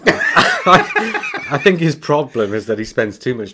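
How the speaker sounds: talking through laughter; laughing. Real, not acted. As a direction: laugh while speaking. Laughing at joke.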